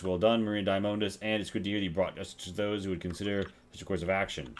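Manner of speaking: lightly voiced posh British officer. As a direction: read quest dialogue in a hint of posh British. Voicing game dialogue in accent.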